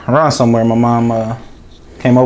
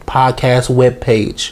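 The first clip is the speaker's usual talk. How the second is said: put-on old man voice; much slower than usual. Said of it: "I sounded like a fucking old man".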